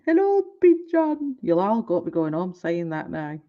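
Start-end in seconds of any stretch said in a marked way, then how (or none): 0.1-1.4 higher, put-on "Hello, pigeon"; a touch of the pigeon guy. Imitating the pigeon man again for viewers, higher pitched. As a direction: give it a silly video-guy lilt. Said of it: "I live in a house with a pigeon".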